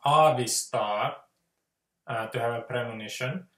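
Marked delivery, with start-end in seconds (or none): 0.0-1.2 "aavistaa," said slowly and clearly; slow, careful Finnish "aavistaa,"; Finnish word. Shown as a demonstration. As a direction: give the Finnish "aavistaa," carefully, one syllable at a time. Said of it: "if there's a word like".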